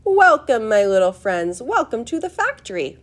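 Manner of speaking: high and loud, opening with a swooping call; fluting, excited host calling out; high, fluty welcome. A narrator's reading. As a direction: call out a fluty, showman-like greeting. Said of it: "His voice was high and fluty".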